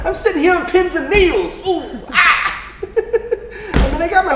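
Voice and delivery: high, loud and bursting with excitement; giddy impatience. Acted. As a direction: squeal with eagerness. Can't wait for an assignment.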